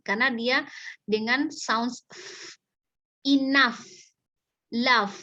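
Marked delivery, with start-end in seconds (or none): 3.3-3.8 "enough" ends in a clear f, "inaf"; correct enough. Shown as a demonstration. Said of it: "jangan baca enough". 4.7-5.2 "love" said for "enough", the wrong way; wrong reading. Shown as a demonstration. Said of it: "jangan baca enough, love, salah".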